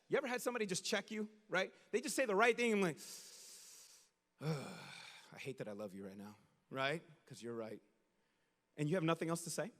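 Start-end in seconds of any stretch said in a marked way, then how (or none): 4.4-7.8 much lower and softer, fast; mock grudging mutter; grudging groan. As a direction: concede through gritted teeth. Grudging admission.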